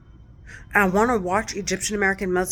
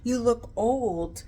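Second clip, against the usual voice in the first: 1 sneering taunt; 4 semitones higher, 5 dB quieter than usual. Retold or imitated. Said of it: "they're like".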